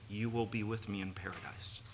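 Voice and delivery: hushed, unvoiced whisper of Jesus's promise; tender whispered promise. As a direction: breathe the promise like a secret.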